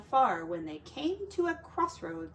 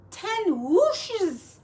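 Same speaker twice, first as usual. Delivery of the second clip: higher, louder shout after him; calling after; 9 semitones higher, 5 dB louder than usual. Acted. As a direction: call it down the road. Piglets calling after Garth.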